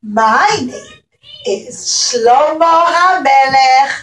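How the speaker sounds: put-on high, bright puppet-king voice greeting the kids; a playful storybook king saying hello; cheerful King Solomon puppet. A puppet Shlomo HaMelech greets the children, high and cheerful.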